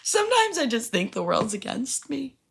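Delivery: high-pitched mock sob; sobbing. Crying to the manager, imitated sobbing. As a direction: whimper it like a tearful complaint. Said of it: "I literally just start sobbing".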